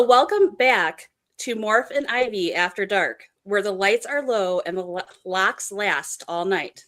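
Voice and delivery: slow, smooth radio host read; unhurried late-night show intro. Shown as a demonstration. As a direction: ease through it like an after-dark DJ. Models late night radio line.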